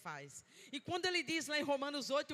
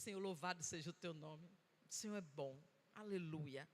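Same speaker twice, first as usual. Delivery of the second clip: tearful prayer; 7 semitones lower, 7 dB quieter than usual. Retold or imitated. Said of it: "com as lágrimas descendo".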